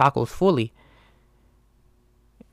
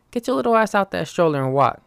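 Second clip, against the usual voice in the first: mock scolding; 6 semitones higher than usual. Orders imagined kid from stroller.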